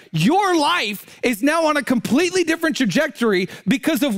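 acted high-pitched rebuke, slowing hard at the end; indignant. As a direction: lecture her as an outraged disciple. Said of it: "They are incensed and angry".

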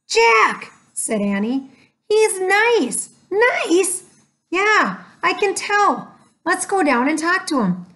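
put-on high, bright eager girl voice; excited little girl. A narrator's reading. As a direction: pitch way up, eager and sure. Narrator voices excited Annie.

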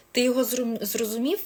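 quick lightly acted check with the listener; checking question. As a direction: ask it back with a rising tune. Acts asking the listener to confirm.

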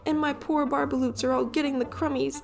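high, sharp creature voice, snapping; Lorax snapping. Acted. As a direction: scold him in a high Lorax voice. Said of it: "He snapped".

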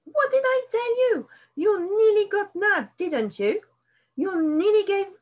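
high, loud, shrill rat scolding the foxes; a rat shrieking at intruders to keep out. A narrator's reading. Rat scolds the fox and shrieks at him.

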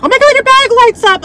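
high, squealy mock gush of admiring strangers; excited gushing. Imitating strangers who gush over her bag, squealing high. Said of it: "everybody just freaking out".

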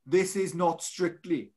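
lightly put-on Welsh referee accent; Nigel Owens accent. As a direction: imitate a referee's accent, slowing at the end. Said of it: "in your best Owens accent".

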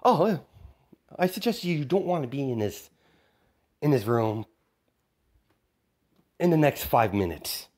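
gleeful threat. Acted. Kid villain warning Batman about the bomb, gleeful. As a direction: threaten them with cheerful menace.

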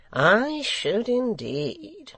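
high, loud, very slow assent; secretary, emphatic. A narrator's reading. Secretary assuring the hangman, emphatic. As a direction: draw out each word high.

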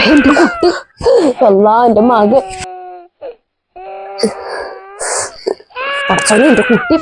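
put-on wailing over the child; tearful wail, grandmother over her grandchild; crying out. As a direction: cry out in anguish for the baby.

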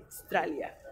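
"Australia" as "Stralia", starting on S; Au dropped. Shown as a demonstration. Teacher removing the first letters, "Stralia". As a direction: cut the Au off "Australia", keep the l. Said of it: "le vas a quitar la A U".

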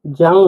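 জাং said clearly with a ringing ng; teacher pronouncing জাং; word demo. Shown as a demonstration. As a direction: model জাং for students. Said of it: "যেমন দেখুন এখানে কি আছে".

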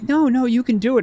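high, loud mock-cheering; imitating encouragement. Chat encouraging him to answer the riddle, high mock cheer. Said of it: "they was like".

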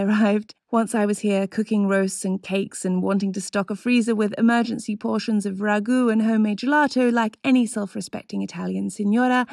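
ordinary delivery

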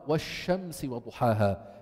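والشمس recited with an airy, spread sh; spreading shin. Shown as a demonstration. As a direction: let air fill the mouth on the ش of والشمس. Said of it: "بينتشر الريح في الداخل".

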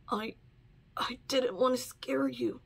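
whispered, pained confession; weak whisper. Acted. Wounded Chat to Ladybug, a weak pained whisper. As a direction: whisper it like it hurts to speak.

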